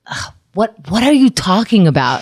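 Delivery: a mildly exasperated ugh, then a curt question; a hint of an irritated, impatient friend; annoyed ugh. Imitating a mild-mannered friend who sounds irritated when confused. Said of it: "But it's in such a tone".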